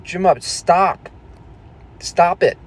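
high, drawn-out mock scolding; loud, slow exasperated order; exasperated telling-off. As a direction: imitate viewers begging him to stop. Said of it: "It's like".

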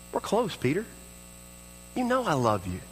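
put-on softly reassuring a loved child; tender, unhurried, with pauses; fatherly tenderness. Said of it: "in the tone of Jesus as Father".

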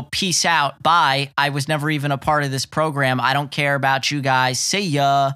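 careless, fast brush-off; dismissive goodbye. Retold or imitated. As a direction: toss it off like you're done. Player quitting his team, acted.

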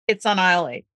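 relaxed, easy, unhurried answer; chill. Retold or imitated. Helper answers the lost shopper coolly and casually. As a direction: play it cool and offhand. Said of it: "I'll be like, chill".

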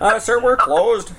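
mock polite refusal; apologetic shop worker. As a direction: play staff gently turning a customer away. Acted shop worker turning customer away.

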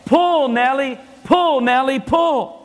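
mock yell. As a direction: call the horse like a farmer on a field. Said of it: "he yells".

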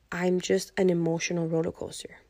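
whispered admission. Real, not acted. Admitting inner turmoil.

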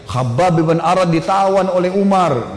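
slow, drawn-out warning cry; mock shout. Lookout warns companions that Khabbab is captured, mildly shouted. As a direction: call it out slowly, a restrained yell. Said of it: "Teriak dia".

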